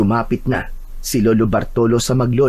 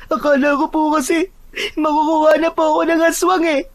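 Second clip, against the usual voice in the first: put-on very high, plaintive child voice; frightened child. Child telling grandmother of nearly being taken, frightened. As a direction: explain the scare in a small, high voice.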